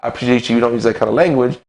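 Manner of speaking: polite, even correction of a stranger; calm and collected. Pretend. Man calmly asks a stranger to mind his language, politely. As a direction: keep it calm and courteous, not pushy. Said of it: "say if I come up to 'em, calm and collected".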